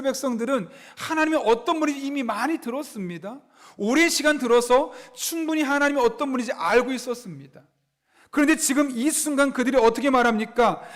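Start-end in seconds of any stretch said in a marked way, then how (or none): none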